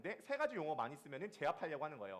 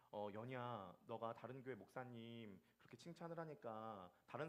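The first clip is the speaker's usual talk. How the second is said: lower, soft confession to his wife; soft, lower, humbly owning it; gentle humble reply; 3 semitones lower, 5 dB quieter than usual. Pretend. Husband humbly confessing jealousy to his wife, softly. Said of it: "라고 말하지 않겠죠".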